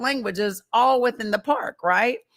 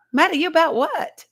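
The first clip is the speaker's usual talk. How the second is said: high, louder baffled question with a laugh; amused disbelief; 7 semitones higher, 4 dB louder than usual. Retold or imitated. Retelling her reply to a worried uncle, laughing disbelief. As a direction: act out laughing incredulity.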